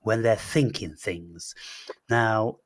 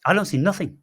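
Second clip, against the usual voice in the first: raised pitch, insistent; emphatic admission; 6 semitones higher, faster than usual. Real, not acted. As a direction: insist on it with a high-pitched punch. Emphatically admits he can't do it.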